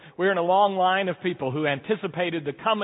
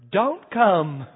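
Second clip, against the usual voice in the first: put-on small sheepish kid's answer, no louder; sheepish child; 2 semitones higher, 4 dB louder than usual. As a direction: confess it like a guilty little boy. Child confesses after silence.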